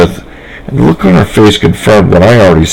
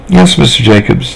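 put-on children in unison; 4 semitones higher than usual. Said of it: "they said in unison".

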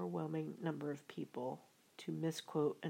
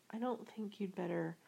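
mildly nervous, higher-pitched caution; hesitant warning with a touch of nerves; nervous Piglet; 5 semitones higher than usual. Acted. Piglet warns Tigger off the pickle jar, mildly nervous. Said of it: "began Piglet nervously".

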